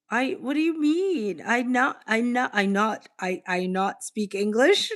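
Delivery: playing dumb in halting broken English, pitch up at the start; mock broken English. Teased as a fake Aussie, answers in mock broken English. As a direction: feign not understanding, stumbling on "I not".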